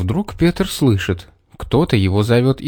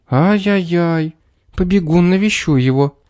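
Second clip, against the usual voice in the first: fussing woman; 6 semitones higher than usual. A narrator's reading. Worried mayor's wife hurries off.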